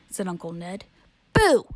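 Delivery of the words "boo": a loud, high BOO to scare; ghostly boo. Acted. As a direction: jump out and shout boo. Ghost tries to scare teenager.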